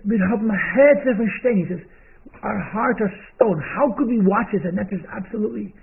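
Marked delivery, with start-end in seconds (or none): 0.1-4.6 retold crying plea. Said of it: "and he's crying".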